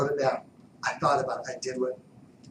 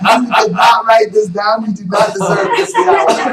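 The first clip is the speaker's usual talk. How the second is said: mock shout; 8 semitones higher, 17 dB louder than usual. Teasing wife who didn't write it down, mock shout. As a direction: ham up the blame.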